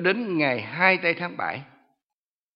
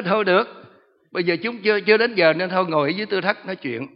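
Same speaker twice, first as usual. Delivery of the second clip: firm reply; 5 semitones higher, 7 dB louder than usual. Retold or imitated. Pastor answers the demon.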